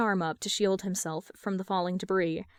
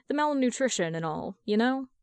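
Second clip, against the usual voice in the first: ordinary delivery, nothing marked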